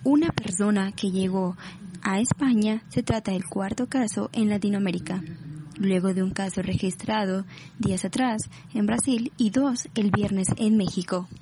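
measured, even news read; serious newscast voice. Shown as a demonstration. Newsreader announcing a first coronavirus case, serious. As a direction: report it soberly, phrase by phrase. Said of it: "Empecemos con una voz seria, como de noticiero".

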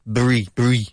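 BRIE as the short ending of strawberry, "bree"; isolated "Brie", crisp b into r; syllable drill. Shown as a demonstration. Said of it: "It's strawberry".

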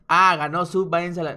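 mock outraged hater rant; mock angry fan. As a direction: imitate a sore loser fan lightly yelling. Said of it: "yo no digo".

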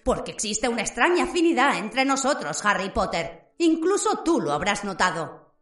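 lightly voiced sinister young wizard; Riddle's voice. Riddle speaks to Harry. (voz burlona y amenazante de Riddle)

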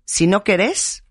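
querés with the stress landing on RÉS; stress on final E. Shown as a demonstration. Host finishing her mother's saying, querés stressed on the last syllable. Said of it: "con acento en la E".

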